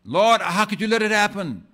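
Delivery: a believer fussing at God in hurt protest; venting to God. Retold or imitated. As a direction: throw the question at God in pain. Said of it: "vented on God".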